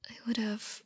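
breathy trailing whisper. Acted. Girlfriend unable to finish, whispering. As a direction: drop back to a hush and give up. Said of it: "I can't even say it".

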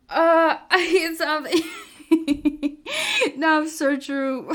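laughing loudly through the words. Real, not acted. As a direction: laugh it off after the bump. Laughing after bumping.

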